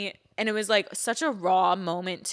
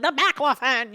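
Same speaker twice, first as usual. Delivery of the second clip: higher, exaggerated outburst; mock flipping out; 5 semitones higher, 4 dB louder than usual. Daughter mimicking Mom upset about her medicine, mock flipping out. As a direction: imitate Mom having a little fit. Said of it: "like, flipping out".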